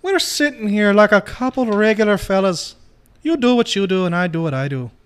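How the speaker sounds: mock British tough-guy voice, lightly done; shitty put-on British accent. Partner mocking the other in a bad British accent. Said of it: "The last shitty accent I can pull out".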